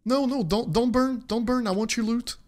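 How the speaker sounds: rising, pleading protest to a burning item; desperate pleading. Real, not acted. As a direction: beg it not to burn.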